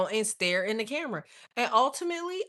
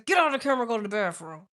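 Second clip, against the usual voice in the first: firm scolding; 5 dB louder, faster than usual. Retold or imitated. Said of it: "I just tell her ass".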